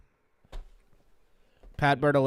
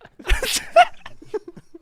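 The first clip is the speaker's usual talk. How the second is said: high laugh burst; 8 dB louder than usual. Real, not acted. Reacts to own joke.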